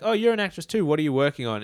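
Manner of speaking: high, bright mock actress; chirpy actress voice. Friend retells a backstage chat in a high gushing voice.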